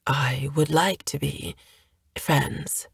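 barely-voiced, hesitant whisper; shy whisper. Hale whispers his wish for friendship to Violin. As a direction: breathe it out, unsure of yourself.

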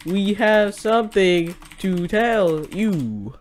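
slow, stiff robot voice. Pretend. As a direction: drag every word out like a machine. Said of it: "I sound like a robot".

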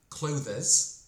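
"clothes" as two syllables, clo-thez; mispronounced CLOTHES. Shown as a demonstration. Teacher showing learners a typical mistake, "clothes" in two syllables. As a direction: say "clothes" wrongly with an extra syllable, DEZ ending. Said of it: "типова помилка ... вимовляти слово як".

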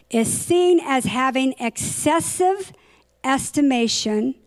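measured reading, phrase by phrase with gaps; slow careful reading. Real, not acted. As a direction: read slowly, pausing between phrases. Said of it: "I'm gonna try to read it slow".

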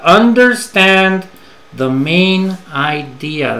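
each word spaced out slowly; teacher's slow careful model; slow and deliberate. Shown as a demonstration. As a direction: spell the idea out for learners.

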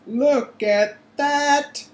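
high, slow excited yell. A narrator's reading. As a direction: bellow it out like an announcer. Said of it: "Bagman was yelling".

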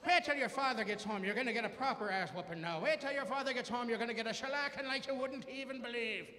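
hamming up an angry mother's threat; angry mom threat. Retold or imitated. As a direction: mom warning her son about dad. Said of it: "my mom looked at me and just went south".

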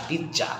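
পিৎজা with a clear ts sound; correct pronunciation. Shown as a demonstration. Teacher models correct pronunciation of pizza. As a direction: say পিৎজা, the t and z together. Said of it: "পরিষ্কার পি".

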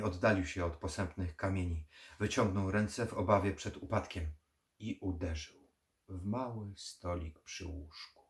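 ordinary delivery, nothing marked

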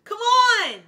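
high, drawn-out scream of disbelief; shocked screaming. Real, not acted. Fan reacting to a singer's voice, shocked screaming. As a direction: scream it at full volume, stretching the words.

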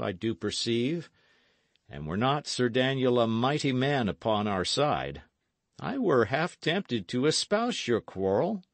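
lightly voiced nobleman, deliberate and formal; measured Earl. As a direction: reason it out as a fair-minded lord. Earl explains his loyalties.

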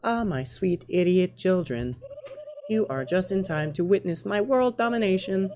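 lightly voiced scheming queen; grandiose villain queen. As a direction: gloat over a world domination plan, lightly acted.

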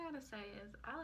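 muffled behind cupped hands; speaking through hands. Real, not acted. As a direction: palms over lips. Seen 0: Hands cover nose and mouth 1.3-2.0s; mouth visible otherwise.

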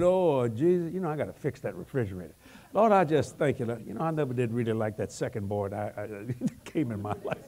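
a mind drifting mid-prayer, muttered asides; mock distracted prayer. Congregant praying while the mind wanders, mock muttered. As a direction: let the thoughts slip out under the breath.

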